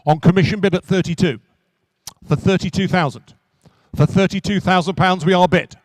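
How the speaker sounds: brisk auction-room patter, driving to the hammer; rhythmic auctioneer selling a classic car; auctioneer's call. Acted. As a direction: call the bids to the room and close. Auctioneer calling bids.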